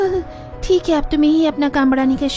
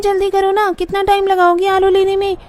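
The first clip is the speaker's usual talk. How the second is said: high whiny voice; 5 semitones higher, 4 dB louder than usual. Acted. Sister-in-law calling impatiently, high-voiced.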